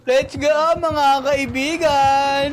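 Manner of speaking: long, drawn-out call to friends; rallying cry. Real, not acted. Player rallying his friends into the game, drawn-out cheer. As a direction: stretch it out slowly to rally them.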